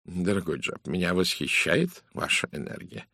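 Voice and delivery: measured detective gently teasing a colleague; lightly characterised, deliberate lecturing of a friend; a hint of a self-assured detective; lightly voiced Poirot. Poirot answers the inspector.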